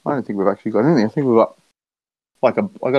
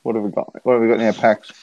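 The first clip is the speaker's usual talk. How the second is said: talking while eating; mouth full. Real, not acted. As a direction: speak round a bite of dinner. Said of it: "I'm just eating my dinner".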